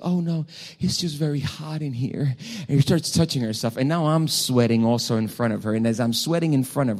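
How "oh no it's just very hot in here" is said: lightly voiced girl, pitched higher; girl seeking counsel. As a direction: imitate her with a lighter, higher voice. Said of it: "She says".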